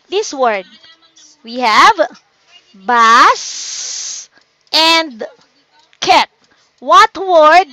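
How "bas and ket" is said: "bus", pause, "and", pause, "cat", each set apart; syllable by syllable. Shown as a demonstration. Teacher showing two syllables to kids, each part separated. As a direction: break the word into "bus" and "cat". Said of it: "the word basket with two syllables".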